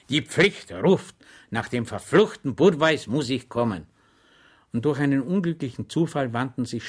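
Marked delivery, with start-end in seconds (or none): 0.1-3.9 Schweig dutiful. Acted. Schweig resolute.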